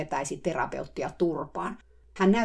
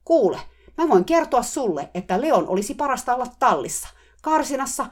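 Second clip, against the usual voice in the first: higher and loud, bellowing insistence; 6 semitones higher, 6 dB louder than usual. A narrator's reading. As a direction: roar him down. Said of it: "hän mylvi".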